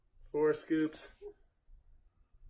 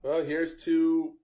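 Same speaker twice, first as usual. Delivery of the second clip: mock toast; 4 semitones higher, slower than usual. Mock toast before drinking.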